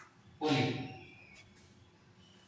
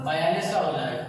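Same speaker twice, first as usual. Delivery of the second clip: laughing; 4 semitones lower than usual. Real, not acted. Teacher correcting himself mid-class.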